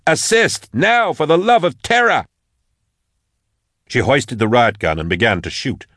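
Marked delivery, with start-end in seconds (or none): 0.1-2.2 high, urgent demand for help; desperate yell. A narrator's reading. Max demands assistance as the thing nears, desperate yell. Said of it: "she yelled".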